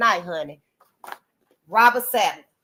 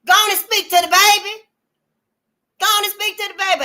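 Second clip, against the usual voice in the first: high urging; 10 semitones higher, 6 dB louder than usual. Real, not acted.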